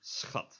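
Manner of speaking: "Schat" said as "s-khat"; S into a scraped Dutch CH in "Schat"; S plus CH. Shown as a demonstration. Teacher repeating the word for darling, S plus CH. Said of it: "just an S and a ch".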